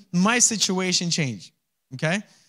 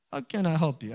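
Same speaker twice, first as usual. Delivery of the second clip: gentle; 2 semitones lower, 5 dB quieter than usual. Shown as a demonstration. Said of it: "prophet asks her two questions".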